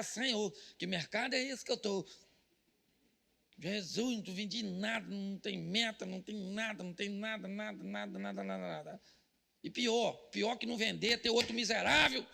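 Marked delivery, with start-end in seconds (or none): 0.0-9.0 despairing prayer. Pretend. Pastor acting a salesman praying in defeat, fading despair. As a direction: lament to the Lord, fading out on the last nada. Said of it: "Você tem que falar".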